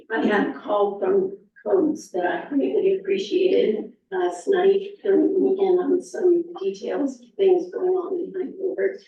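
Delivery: rusty, hoarse voice from strep throat. Real, not acted. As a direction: speak through a sore, hoarse throat. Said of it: "My voice is rusty".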